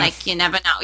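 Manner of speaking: casual New Jersey accent demo; easy New Jersey speech. Shown as a demonstration. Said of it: "Can you do a Jersey accent?".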